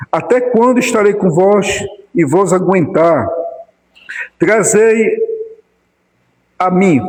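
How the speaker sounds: measured, declaimed Bible reading; solemn read-aloud with phrase breaks; scripture reading. A narrator's reading. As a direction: read the passage out to a congregation.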